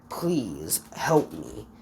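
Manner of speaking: breathless whispered plea, dropping low on help me; begging whisper. Acted. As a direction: beg her on your knees in a hushed whisper. Deku on knees begging Toga.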